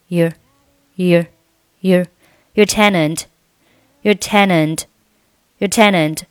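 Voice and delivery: "your" reduced to a short, weak "yer"; slow drill of a weak "your" leaning into tenant; weak form of your. Shown as a demonstration. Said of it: "your弱读成".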